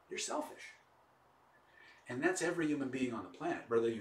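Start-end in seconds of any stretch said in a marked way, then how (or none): 0.1-0.7 softer, near-whispered punchline; hushed verdict. Retold or imitated. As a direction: drop it to a hushed blow. Gentle verdict to the man.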